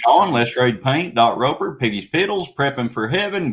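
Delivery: fast auctioneer patter. Shown as a demonstration. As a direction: rattle names off like an auctioneer. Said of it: "my auction voice".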